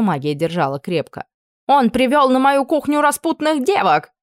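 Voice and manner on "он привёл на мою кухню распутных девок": higher, louder outraged accusation; indignant complaint. Acted. Cook complaining to Anna about the camp cook, indignant. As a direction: accuse him loudly.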